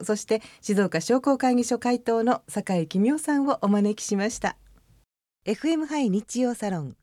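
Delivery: measured radio announcer delivery; announcer naming guest and sponsors; programme sign-off read. Acted. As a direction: read out the closing credits formally. Reads the programme sign-off and sponsor credits.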